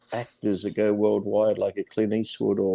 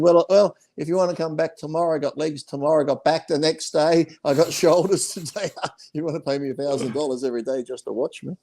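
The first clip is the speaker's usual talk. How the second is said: cheeky retold offer; 6 semitones higher than usual.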